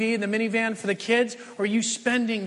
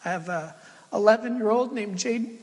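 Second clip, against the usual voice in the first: getting emotional. Real, not acted. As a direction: voice catching with real emotion. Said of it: "I get so emotional".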